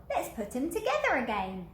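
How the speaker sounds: chirpy helpful suggestion; little skeleton voice. Acted. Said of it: "the little skeleton said".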